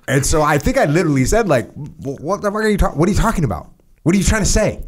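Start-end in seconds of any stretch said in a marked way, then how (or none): 1.7-4.8 higher, incredulous questioning; bewildered disbelief; baffled retort. Retold or imitated. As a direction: sound totally confused. Confused retort to teammate.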